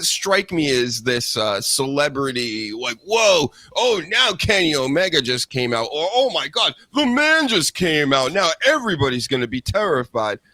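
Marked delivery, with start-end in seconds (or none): 3.1-5.8 raised, hammed-up gasp of awe; mock excitement. Host mocking fans hyped for Kenny Omega with fake, raised excitement. 6.1-10.4 high, sarcastic fake amazement; mock awe. Host mocking fans terrified of Kenny Omega in high, sarcastic amazement. Mocking awed crowd reaction.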